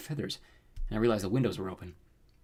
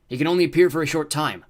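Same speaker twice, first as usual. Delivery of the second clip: higher, louder scolding monster; chiding rooster creature; 5 semitones higher, 8 dB louder than usual. A narrator's reading. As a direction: chide your sidekick, loud and high. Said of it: "the rooster-footed guy chided".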